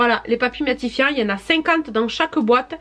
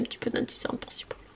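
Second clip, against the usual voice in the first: whispering; 16 dB quieter than usual. Real, not acted. Whispered aside while applying concealer.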